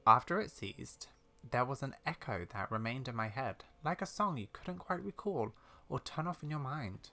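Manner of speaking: lightly voiced old lady recounting family lore; measured, soft storytelling as an elderly explorer; old lady character.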